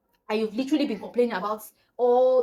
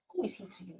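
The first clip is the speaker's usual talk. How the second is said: much softer, guarded question; hesitant girl's question; 3 semitones lower, 10 dB quieter than usual. Retold or imitated. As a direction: quietly venture it, having just found the courage. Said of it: "finally mustered up some courage".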